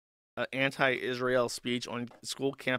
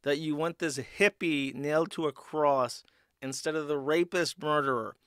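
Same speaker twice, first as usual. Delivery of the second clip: Roman official voice; 3 semitones higher, 3 dB louder than usual. Retold or imitated. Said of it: "the Roman guy's like".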